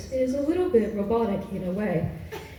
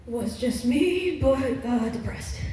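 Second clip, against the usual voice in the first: depressed voice; much slower than usual. Shown as a demonstration. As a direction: drag it out, all hope gone. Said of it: "this one voice that I was doing".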